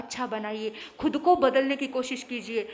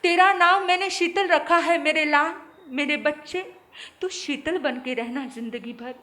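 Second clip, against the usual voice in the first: 1 loud dying mother; 2 semitones higher, 5 dB louder than usual. Acted. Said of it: "क्या बोला?".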